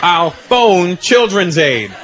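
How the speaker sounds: put-on slow, emphatic repeat of a kid's bluff; insistent threat. Boy repeats his threat to doubting dad, slow and insistent. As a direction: punch out each word slowly and firmly.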